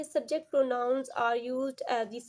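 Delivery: slow, careful read-aloud; slow definition read. Acted. Teacher reading the grammar rule to her students, slowly.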